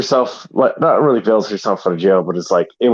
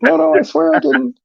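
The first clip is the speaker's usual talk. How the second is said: mock pleading. Accused wife pleads with police.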